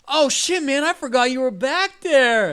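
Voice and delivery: high, loud realization; startled gang member. Acted. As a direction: call out high in sudden apology. Gang member voiced, realizing his mistake.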